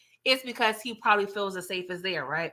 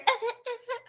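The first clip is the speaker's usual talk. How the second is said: imitated crying; 5 dB quieter than usual. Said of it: "over there crying in Raina's room".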